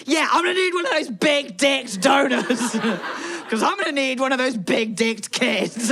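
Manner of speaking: giggling through a cheeky mock request; laughing mock request. Imagining asking the clinic nurse, laughing half-shout. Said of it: "And me be like".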